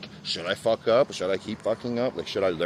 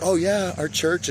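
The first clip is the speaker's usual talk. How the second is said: mimicked church member; 8 semitones higher, slower than usual. Imitates the woman pitching her church.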